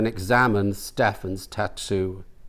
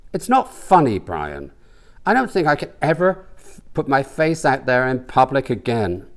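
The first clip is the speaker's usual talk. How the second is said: a hint of an embarrassed huff; indignant rant; 3 semitones higher than usual. The speaker rants to Brian walking home, indignant.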